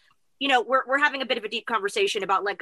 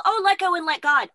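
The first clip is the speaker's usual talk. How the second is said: mock lofty saying; 8 semitones higher, 4 dB louder than usual. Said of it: "it sounds so simple".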